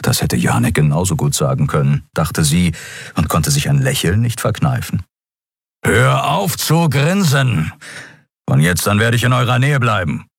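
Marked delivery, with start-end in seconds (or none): 5.8-10.3 a lightly voiced beast scolding; Skria, gruff. A narrator's reading. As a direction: Skria telling Andriel to stop grinning.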